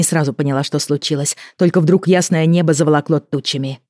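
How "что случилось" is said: usual speaking voice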